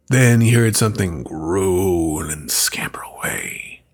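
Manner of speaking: hushed, deliberate storytelling, drawing listeners in; spooky story narration. A narrator's reading. Narrates scary folktale.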